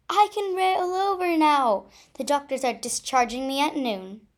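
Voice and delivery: high bright happy announcement; joyful. Acted. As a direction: say it overjoyed. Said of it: "I said joyfully".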